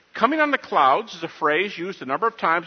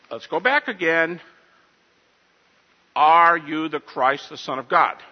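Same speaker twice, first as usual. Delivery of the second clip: exasperated priest. Retold or imitated. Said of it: "how the high priest should have responded".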